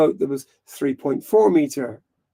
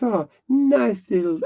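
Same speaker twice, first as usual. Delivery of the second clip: mock-French petting voice; Clouseau; 6 semitones higher than usual. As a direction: coo at the dog as a French detective. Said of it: "And he goes".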